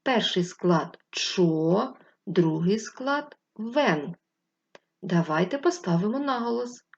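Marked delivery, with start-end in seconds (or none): 0.0-4.1 slow syllables. Shown as a demonstration. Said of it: "в цьому слові два склади".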